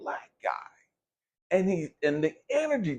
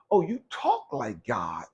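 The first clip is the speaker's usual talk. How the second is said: preachy mock quote; 4 dB louder than usual. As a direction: parrot the holier-than-thou saying. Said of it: "there's a saying that says".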